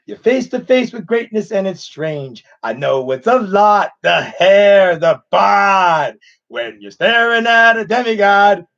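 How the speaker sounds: lightly voiced cocky demigod; Maui from Moana. Streamer speaks Maui's song lines, lightly voiced cocky swagger. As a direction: swagger through it like a boastful demigod. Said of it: "I'll do a bit of his voice from Moana".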